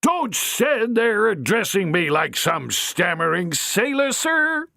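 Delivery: high, furious dressing-down; furious matron. Acted. Matron scolds Harry, furious. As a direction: scold him with contempt. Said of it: "hissed the furious matron".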